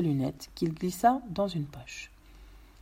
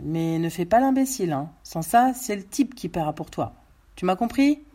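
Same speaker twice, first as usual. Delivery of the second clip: ordres plus aigus et lancés fort; homme armé menaçant; 5 dB louder than usual. Acted. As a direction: donne tes consignes en malfaiteur autoritaire. (voix forte d'homme qui menace)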